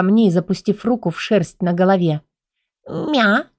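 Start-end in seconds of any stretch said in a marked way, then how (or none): 2.9-3.5 тихое мяуканье. Acted. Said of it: "не смогла не ответить я".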